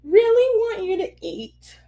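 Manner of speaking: high, mock-sobbing plea; retold tearful pleading. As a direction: plead through fake tears, laugh creeping in. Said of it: "I'm crying".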